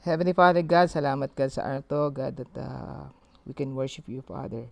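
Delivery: earnest spoken prayer. Acted. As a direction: pray sincerely to God aloud. Leads an opening prayer.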